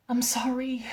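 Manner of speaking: breathy whispered I'm sorry; whispered apology. Acted. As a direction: whisper it close to his ear. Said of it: "and I said".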